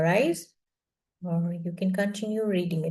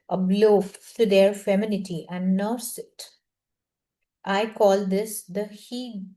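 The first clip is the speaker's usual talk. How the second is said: measured read-aloud from a self-help book. Acted. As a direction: read the passage out evenly, phrase by phrase. Reads book chapter aloud.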